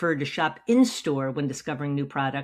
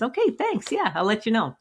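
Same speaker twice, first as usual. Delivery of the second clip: polite customer; 5 semitones higher than usual. Retold or imitated. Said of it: "The person smiles and says".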